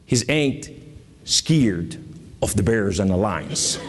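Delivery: low-pitched mock southern accent; joking southern accent. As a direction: slip into a playful southern accent, pausing between phrases. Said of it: "I speak with a southern accent".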